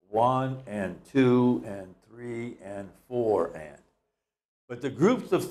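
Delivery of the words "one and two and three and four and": rhythmic count, one and two and; counting the beat. Shown as a demonstration. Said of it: "Think of the subdivided beat".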